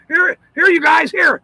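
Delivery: light mock call to passers-by. Handing out umbrellas to people.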